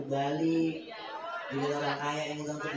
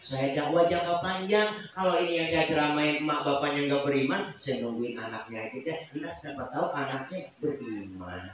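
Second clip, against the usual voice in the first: gentle refusal. Acted. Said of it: "kalau bahasa kita".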